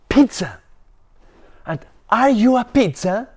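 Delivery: loud, high stubborn shouting; angry yell. Acted. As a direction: refuse it at the top of your voice. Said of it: "And Ben yelled".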